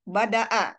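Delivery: BADA'A said slowly with a plain glottal stop before the last A; hamzah pronunciation. Shown as a demonstration. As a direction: stretch out BADA'A, ending on a clean hamzah. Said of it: "Itu kan beda ya". (Bada'a diucapkan pelan dengan hamzah)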